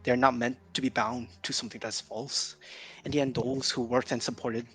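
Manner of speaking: formal speech. Acted. Character gives formal speech.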